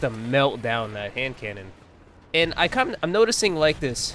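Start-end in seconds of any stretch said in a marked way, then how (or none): 2.3-4.1 breathless, pushing words out between breaths; talking while short of breath. Real, not acted. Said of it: "Sorry, I'm out of breath".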